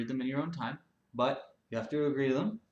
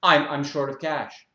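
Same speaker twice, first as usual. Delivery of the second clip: whiny gym member; 2 semitones higher, 10 dB louder than usual. Acted. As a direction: complain like a spoiled man-child. Member excuse.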